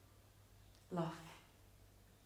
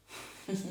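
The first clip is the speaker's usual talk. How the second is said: short, voiceless acted laugh; a small breath of laughter; brief laugh; 4 dB quieter than usual. Bitter recollection of pretending.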